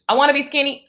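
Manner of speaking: lifted pitch, mock-insistent wanting; mock eager wish. Acting out flip-flop energy, mock eager wish. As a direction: punch it up as the wanting side.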